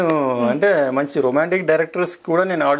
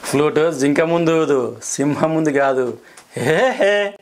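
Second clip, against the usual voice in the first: funny version; 2 semitones higher, slower than usual. Shown as a demonstration. Actor redoes the angry line as comedy, mild laugh. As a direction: play it for laughs with a giggle at the end. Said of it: "ఈ dialogue నేను ఫన్నీగా కూడా చెప్పాను".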